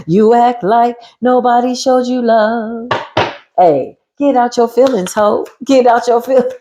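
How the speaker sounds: taunting. Acted. Taunting the enemy.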